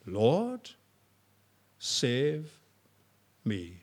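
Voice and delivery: put-on gentle childlike plea; simply, as a child would pray. Shown as a demonstration. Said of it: "A child could understand this".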